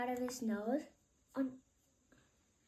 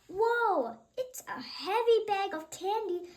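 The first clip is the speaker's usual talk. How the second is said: straining; 7 semitones higher, 5 dB louder than usual. Acted. Policeman strains lifting heavy bag.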